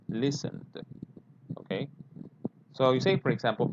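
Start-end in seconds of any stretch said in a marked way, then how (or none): 0.1-0.6 listened, one syllable less than it looks, ending in d; model of listened. Shown as a demonstration. Teacher repeats listened sound for the class. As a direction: end listened on a light d. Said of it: "That's how it sounds".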